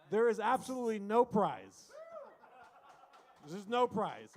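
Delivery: saying it through a laugh; chuckling while talking. Real, not acted. Joking no prize, laughing.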